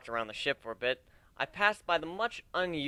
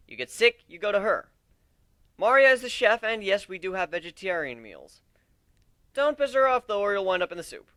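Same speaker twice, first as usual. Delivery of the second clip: loud warning to recruits; 5 semitones higher, 7 dB louder than usual. Acted. Captain warns recruits about chef.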